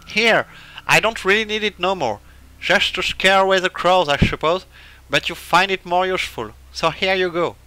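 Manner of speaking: a hint of an old-timer handing something over; lightly voiced old man. Voicing old man in game.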